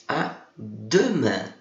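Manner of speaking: "à demain" said with a smile on the nasal IN; teacher shows students how to smile through "à demain"; smiling pronunciation. Shown as a demonstration. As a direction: spread lips for the end of "à demain". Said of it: "pronunciada sorrindo".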